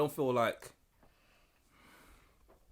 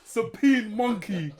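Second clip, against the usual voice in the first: laughing; 2 semitones higher, much slower than usual. Real, not acted. Repeating the slip laughing.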